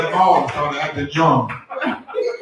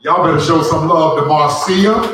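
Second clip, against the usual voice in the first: hype shout; 6 dB louder than usual. Real, not acted. Host hypes the crowd for a guest.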